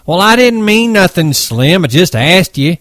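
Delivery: high, loud defensive pleading; pleading young hothead; Curly pleading. Acted.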